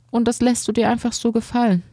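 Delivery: high, quick disbelieving question; old man can hardly believe it; incredulous scolding. Acted. Old man scolds bullied boy.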